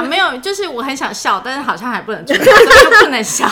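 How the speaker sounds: giggles breaking through; holding back laughter; trying not to laugh. Real, not acted. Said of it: "就要一直憋笑这样子".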